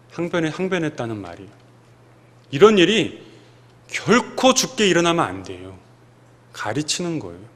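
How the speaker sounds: ordinary talk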